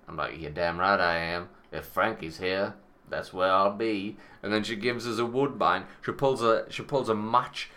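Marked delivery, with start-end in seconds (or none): 0.4-4.2 a touch lower, slower hard-boiled swagger; lightly voiced wise guy. Answering the barmaid as a hint of a tough guy. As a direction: play it like a fifties gangster, lightly. His mobster persona replying.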